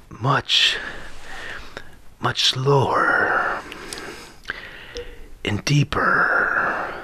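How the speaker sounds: slow, drawn-out Spanish-accented Banderas; slow deep Banderas. Shown as a demonstration. Friend demoing Banderas to podcast mates, slow and stretched. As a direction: stretch every word like Antonio Banderas. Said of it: "when you speak in Antonio Banderas speak".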